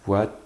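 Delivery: "voiture" cut to "voi-tuuu", the u stretched; vowel held long. Shown as a demonstration. Teacher asking what follows t, "voiture" with lengthened u. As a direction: hold the u in "voiture" and leave off the r. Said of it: "Après t, qu'est-ce que j'entends?".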